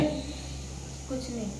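slow, tearful, near-whispered reply; crying. Acted. Wife crying for an emotional reel, answering her husband in tears. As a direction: answer through real tears. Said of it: "रो क्यों रही है तू?".

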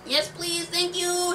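put-on high, polite boy; high-voiced eager thanks; Peter. A narrator's reading. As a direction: pipe up high with grateful politeness. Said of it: "said Peter".

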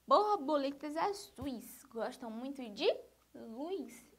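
slow, emphatic verse with a pause before the last word; reading a poem to children. Acted. Teacher rereading the line so pupils find the answer, slow poem reading. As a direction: read it slowly, holding back the answer.

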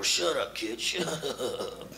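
soft, slow, low hush; hushed hiss. Acted. Man hiding in closet, hushing the boy. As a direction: shush the kid urgently.

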